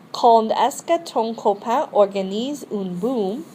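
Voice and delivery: Quand est-ce que ton copain organise une boum? rising on que; model question. Shown as a demonstration. Teacher modelling a question for repetition. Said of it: "you're gonna repeat these after me".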